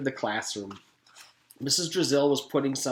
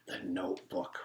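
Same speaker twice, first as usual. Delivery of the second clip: soft, lower, hushed dread; whispered; 5 semitones lower, 10 dB quieter than usual. A narrator's reading. Yard teacher seeing the old notebook, hushed in dread. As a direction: breathe the words in dread. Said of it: "whispered Lewis".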